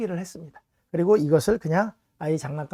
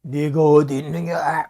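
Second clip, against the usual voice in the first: louder, slow, stern demanding call; angry reading; 6 dB louder, slower than usual. Shown as a demonstration. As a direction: read it like a furious accuser. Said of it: "우리 감정대로 읽잖아요".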